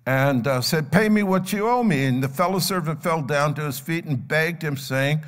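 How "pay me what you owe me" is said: louder, higher demand for payment. Acted. Servant confronts fellow servant over a debt, louder demand. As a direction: demand it firmly, voice raised. Acted creditor demanding his money.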